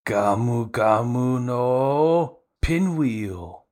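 Luffy calling out his special move; Luffy attack call. Retold or imitated. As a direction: belt out the attack name like an anime hero. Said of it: "And he's like".

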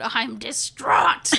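drawn-out mock wail; Moaning Myrtle. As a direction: wail it theatrically, stretching the last word. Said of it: "say it like Moaning Myrtle".

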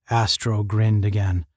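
ordinary delivery

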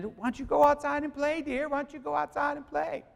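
put-on high, sugary old-lady coaxing; sweet grandma voice. Grandma coaxing the little girl to go play, high sweet voice. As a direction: sweetly shoo the child outside in a high voice.

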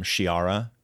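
"Shiara" starting with an SH sound; SH pronunciation. Shown as a demonstration. Suggesting a name's pronunciation to co-host, Shiara with SH. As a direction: say "Shiara" slowly, opening on SH. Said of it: "pronounce it like an S H".

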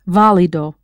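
VÁ in válido stressed; válido, accented at the start; stress on first syllable. Shown as a demonstration. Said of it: "always with that accent over the first syllable".

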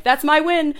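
high, loud mock fan claim. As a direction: voice a smug fan.

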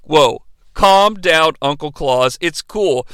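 slow, low calming; mock laid-back reassurance; soothing elf. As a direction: talk him down gently. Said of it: "they're like".

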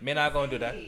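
mimicked Jamaican patois; Jamaican accent. Mimicking blunt people with that accent, in Jamaican accent. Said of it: "people with that accent, they don't".

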